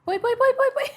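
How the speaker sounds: urgent breathy whisper; panicked rapid whisper; frantic whisper. Real, not acted. Bite slipping, panicked cry.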